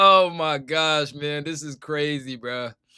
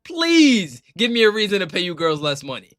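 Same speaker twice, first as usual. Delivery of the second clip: mock begging. Acts owner begging players to strike.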